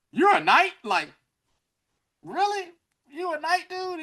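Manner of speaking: high-pitched incredulous questioning; mock disbelief. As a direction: imitate someone sizing him up in disbelief. Retold girls doubting he is a knight.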